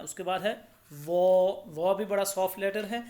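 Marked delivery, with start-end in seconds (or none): 0.9-1.6 वो as Arabic zaa, rounded and held; soft but thick. Shown as a demonstration. Teacher introduces a soft heavy letter, rounded वो held. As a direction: fill out and hold वो. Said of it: "इसे मोटा पढ़ना है".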